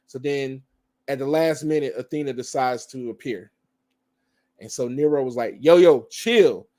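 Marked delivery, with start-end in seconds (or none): 5.6-6.7 acted calming plea. Acting out Nero calming her down.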